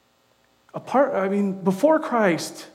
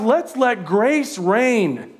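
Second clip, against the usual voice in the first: slow emphasis; much slower than usual. Real, not acted. Preacher slows for emphasis.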